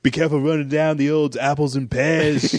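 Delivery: over-the-top Cockney goon; Cockney accent. Acted. Host imagining Giamatti as a goon, hammed-up Cockney accent. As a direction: ham up the Cockney rhyming slang. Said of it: "with a Cockney accent".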